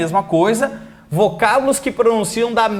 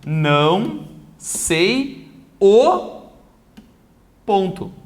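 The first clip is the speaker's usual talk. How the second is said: slow dictation; much slower than usual. Shown as a demonstration. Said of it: "e botar assim, ó".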